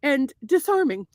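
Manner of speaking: affected, lilting Irish testimonial; put-on accent. Telling caller how charismatic the banker is, put-on Irish accent. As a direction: praise him formally in a mock Irish accent. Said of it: "tell me what kind of accent".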